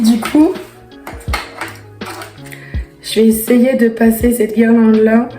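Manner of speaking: losing her voice, rough and strained; real laryngitis, voice half gone; hoarse voice. Real, not acted. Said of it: "j'ai une extinction de voix".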